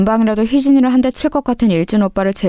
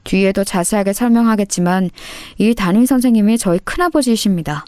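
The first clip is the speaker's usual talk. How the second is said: ordinary delivery, nothing marked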